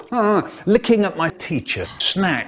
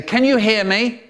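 exasperated parent; 6 semitones higher than usual. Retold or imitated. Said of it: "They say".

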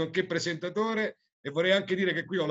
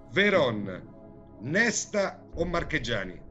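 showy game show host; slower than usual. Acted. Quiz host reading question.

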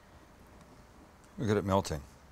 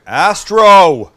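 calling the dog; 7 semitones higher, 12 dB louder than usual. Real, not acted. Yells at dog again mid-sentence.

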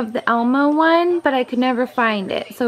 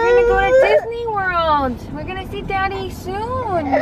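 crying; 6 semitones higher than usual. Real, not acted. Comforting crying child.

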